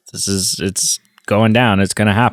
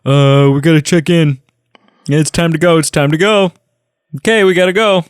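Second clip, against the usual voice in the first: high, nagging whine, mocking the pilot; whiny Carson; 9 semitones higher, faster than usual. Podcast host mocking whiny Carson, high nagging voice. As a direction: pester the General like an impatient kid. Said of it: "oh, he's so whiny here".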